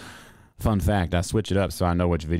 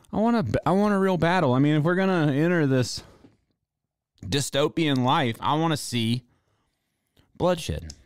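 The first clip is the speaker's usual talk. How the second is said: excited rant; 5 semitones higher than usual. Real, not acted. Ranting for Black Friday bloodshed.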